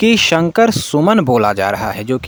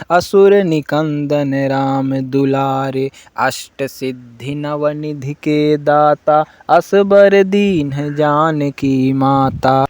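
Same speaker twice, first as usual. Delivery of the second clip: devotional recitation; 2 semitones higher, much slower than usual. Acted. Devotee chanting Hanuman Chalisa for listeners, slow and full. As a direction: recite each line slowly like a temple chant.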